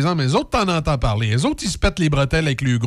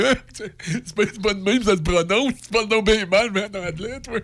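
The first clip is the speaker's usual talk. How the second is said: a hint of a smug Québécois correcting, higher; mocking know-it-all; 6 semitones higher than usual. Host imitates a smug Québécois mocking his English, mildly. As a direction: lightly mimic a condescending show-off. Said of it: "un maudit Québécois niaiseux".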